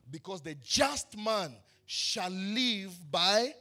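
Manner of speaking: "the just man shall live by" drawn out slowly, left hanging on a rising "by"; slow build-up. Shown as a demonstration. Preacher leaving the line open for the congregation to finish. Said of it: "let me say that again".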